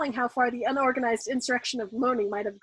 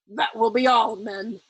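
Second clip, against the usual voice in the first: terse order; 5 dB louder, slower than usual. A narrator's reading. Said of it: "he ordered tersely".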